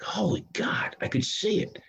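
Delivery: breathless whisper of sudden realization; awed whisper. Retold or imitated. Realizing his counselor was right, whispering in awe. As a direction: whisper it, struck by the truth.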